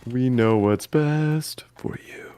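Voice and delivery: slow, drawn-out playful whisper; mock whisper. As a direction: whisper it slowly for effect. Echoes slogan as mock-sinister whisper.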